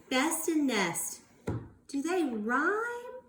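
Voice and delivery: Best and nest drawn out, rhyme lifted; slow down so the rhyme stands out; slow rhyme question. Shown as a demonstration. Teacher asking class, a slow rhyme question. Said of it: "let me ask a question".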